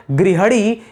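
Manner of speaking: गृहणी slowly, with 'ha' in the middle; गलत उच्चारण गृहणी. Shown as a demonstration. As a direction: drag out gri-ha-ni in गृहणी. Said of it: "ये गलत शब्द दिया गया है". (गृहणी, धीरे से, ह पर बिना मात्रा के)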